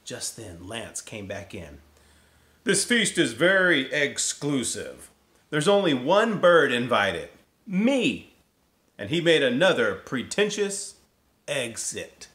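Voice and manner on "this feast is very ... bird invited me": high, loud, puffed-up bird voice; boastful turkey announcing himself; pompous turkey. Acted. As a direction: strut it out like a proud turkey. Lance brags about exclusive feast.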